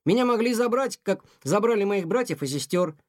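put-on young cat protesting to his mother, mildly indignant. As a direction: protest it, a touch of outrage. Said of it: "возмутился Тихон".

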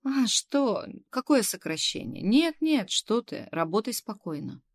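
high, loud, hurried reassurance; taken aback, voice jumping up then easing; startled denial. A narrator's reading. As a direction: protest in surprise, then settle down to reassure. Boss hastily denies a layoff.

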